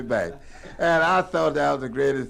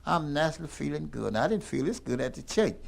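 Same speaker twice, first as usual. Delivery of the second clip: retold whisper; 5 dB quieter than usual. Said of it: "She whispered to me".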